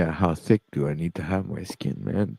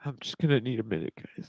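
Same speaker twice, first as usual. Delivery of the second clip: crying; 3 semitones higher, 5 dB quieter, faster than usual. Real, not acted. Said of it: "He's still crying".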